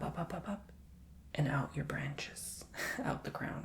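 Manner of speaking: calm guided imagery with whispered stretches; guided visualization. Acted. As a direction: lead them down into the earth and back up.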